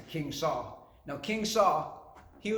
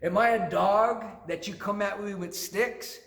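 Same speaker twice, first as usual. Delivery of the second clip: higher, scornful acted challenge; acting out an insulted taunt, pitched up; mocking; 5 semitones higher, 4 dB louder than usual. Goliath to the shepherd boy with a staff, mocking. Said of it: "starts to mock him".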